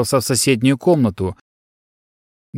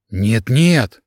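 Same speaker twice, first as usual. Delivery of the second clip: mild panicked no-no; panicked denial. Acted. Son denies father's death, mild panic. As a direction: refuse to believe it, in a light panic. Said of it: "забился в панике юноша".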